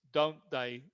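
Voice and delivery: "don't they" stepping down at the end; falling intonation. Shown as a demonstration. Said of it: "It's falling intonation".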